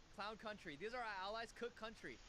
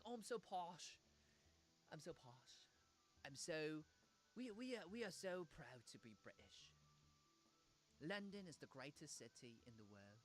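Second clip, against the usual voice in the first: haughty mock British accent, trailing softer; high and mighty; 4 semitones lower, 5 dB quieter than usual. Streamer mocks proud, posh Britons, haughty British accent. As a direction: preen in a put-on posh British voice. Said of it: "they act so high and mighty".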